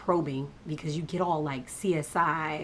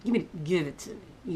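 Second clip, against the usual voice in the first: gritted teeth. Retold or imitated. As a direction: force it out through clenched teeth. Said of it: "teeth gritted".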